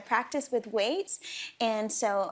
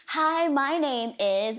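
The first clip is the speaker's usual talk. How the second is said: slow, louder hand puppet voice; 2 semitones higher, 5 dB louder, much slower than usual. Shown as a demonstration. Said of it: "So you can say".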